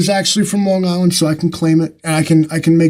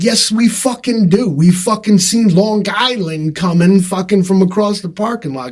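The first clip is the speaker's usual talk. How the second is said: mock-exasperated comeback, pitched up; exasperated retort; 4 semitones higher than usual. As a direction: fire back in pretend exasperation. Acted exasperated retort to Long Islanders.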